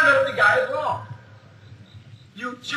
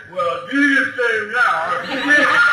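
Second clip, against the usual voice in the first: mocking; 3 dB louder, much slower than usual. Mocking a believer's pat answer.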